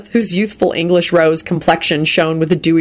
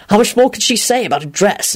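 higher-pitched mild amazement; astonished; 4 semitones higher than usual. Retold or imitated. Lupin recalling his thought about her dress chatter, astonished. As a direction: wonder aloud in mock astonishment. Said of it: "in a kind of astonished way".

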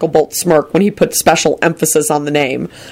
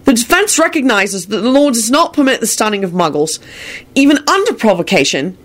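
higher-pitched courtroom argument; raised voice; 7 semitones higher than usual. A narrator's reading. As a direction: raise your voice slightly over the murmuring. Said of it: "Harry raised his voice".

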